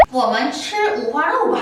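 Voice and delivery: very slow, syllable by syllable; slow model phrase. Shown as a demonstration. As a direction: spell it out slowly for learners. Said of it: "우리 어떻게 얘기해요?". (학습자를 위해 아주 천천히 또박또박)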